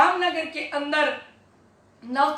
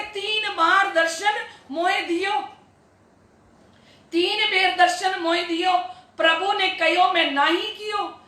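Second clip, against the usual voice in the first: verse recitation; 3 semitones higher than usual. Real, not acted. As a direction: intone it like a holy verse to a congregation. Reciting scripture verse, repeated.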